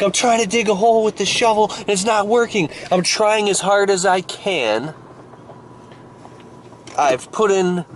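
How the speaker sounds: high-pitched, exasperated mock yelling; frantic screaming digger. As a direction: act out a man losing it over a hopeless job. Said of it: "the guy's going insane, screaming".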